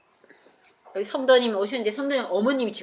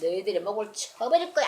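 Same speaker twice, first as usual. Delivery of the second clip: raised angry threat at the guards; furious threat. Acted. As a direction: rage at the failed guards. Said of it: "노발대발한". (노발대발하며 위협하는 목소리)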